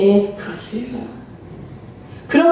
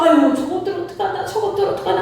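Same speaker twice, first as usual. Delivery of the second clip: pitying sigh; 3 semitones higher than usual. Acted. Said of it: "하나님이 그렇다는 거예요".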